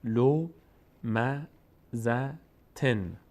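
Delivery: لو, م, ز, تن with a pause after each; syllable by syllable. Shown as a demonstration. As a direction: sound out لو م ز تن as separate beats.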